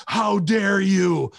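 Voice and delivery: high, slow, drawn-out indignation; mock outrage. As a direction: ham up a helpless wrestler's protest. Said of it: "You just go".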